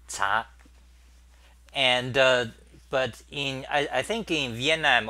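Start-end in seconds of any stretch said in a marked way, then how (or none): 0.1-0.5 CHA louder, with rising Mandarin tone; Chinese second tone. Shown as a demonstration. Streamer naming the tone for viewers, second-tone "cha". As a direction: demonstrate "cha" firmly, pitch lifting upward. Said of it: "second, um, turn".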